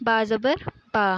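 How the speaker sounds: با زبر با said slowly, lips pressed fully together on ب; demo letter sound. Shown as a demonstration. Teacher demonstrating ب to student, slow, lips pressed. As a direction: spell out با زبر با slowly, lips firmly closed. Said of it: "دونوں ہونٹوں کو اچھی طرح سے ملا کے".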